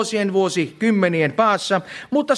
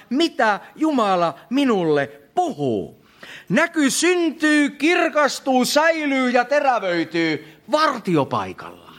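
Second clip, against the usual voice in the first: raised pitch, key words stretched out; emphatic preaching; 5 semitones higher than usual. Real, not acted. Preacher urging congregation to the watchpost, emphatic preaching. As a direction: declaim it to the congregation, slowing on key verbs.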